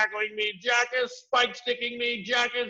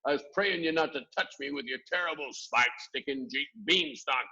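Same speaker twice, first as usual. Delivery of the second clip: high, loud pleading wail; begging for mercy; 5 semitones higher, 5 dB louder than usual. A narrator's reading. Giant pleading with Jack for mercy. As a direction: plead desperately. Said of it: "cried the flesh lump eater".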